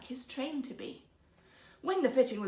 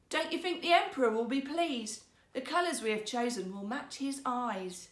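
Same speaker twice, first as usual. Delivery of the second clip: oily rogue weaver; 3 semitones higher than usual. Acted. Second rogue coaxing the minister, smoothly flattering. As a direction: coax him into agreeing.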